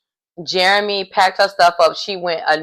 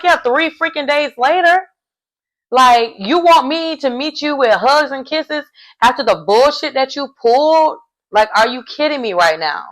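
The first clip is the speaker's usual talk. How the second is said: put-on sassy girlfriend; 6 semitones higher than usual. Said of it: "she's like".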